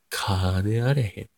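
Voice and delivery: slow, drawn-out Nagoya dialect; 名古屋弁. Shown as a demonstration. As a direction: stretch it out in Nagoya intonation. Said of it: "名古屋弁っぽい言葉を喋ってみて". (名古屋弁でゆっくり伸ばして)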